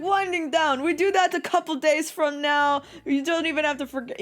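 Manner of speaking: put-on amateur Russian accent; attempted Russian accent. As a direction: imitate a Russian guest scoffing at the idea. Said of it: "I can't do a fucking Russian accent".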